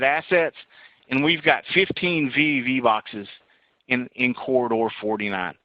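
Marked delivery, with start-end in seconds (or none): 1.1-5.5 hoarse, strained voice going; losing voice. Real, not acted. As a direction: voice giving out, rough and tired. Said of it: "I'm losing my voice here".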